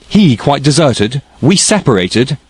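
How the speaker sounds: outraged at the very idea; indignant. A narrator's reading. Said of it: "with an accent of indignation".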